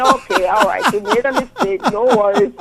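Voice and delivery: sweet, soothing sat-nav voice; gently reassuring navigator; polite GPS voice. Retold or imitated. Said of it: "this G P S was so polite".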